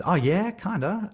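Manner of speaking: high, drawn-out hedging; unconvincing yes. Acted. Actor asked about doing an American accent, hedging. Acted hesitant answer to accent question.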